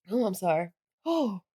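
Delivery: breathing through the mouth; catching breath, nose blocked. Real, not acted. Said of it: "I can't breathe through my nose".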